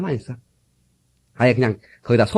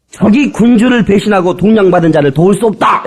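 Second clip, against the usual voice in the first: 거만한 말투; 6 semitones higher, 4 dB louder than usual. Retold or imitated. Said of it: "나발이 하는 얘기가".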